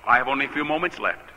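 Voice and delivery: hushed-down reverent plea; understated reverent prayer. Retold or imitated. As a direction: pray it humbly, letting the pitch sink. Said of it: "I said very reverently".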